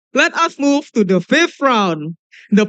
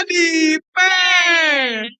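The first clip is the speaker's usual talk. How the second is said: hyped winner call; 4 semitones higher, much slower than usual. Real, not acted. MC calling out the final winner.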